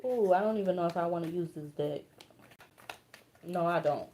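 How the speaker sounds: soft, subdued, holding back feeling; emotional. Real, not acted. Card reader hesitating over the deck, emotional and soft. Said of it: "emotional like this".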